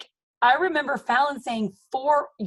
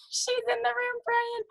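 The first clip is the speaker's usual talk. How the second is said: laughing; 11 semitones higher, 4 dB quieter than usual. Real, not acted. Repeated with a laugh.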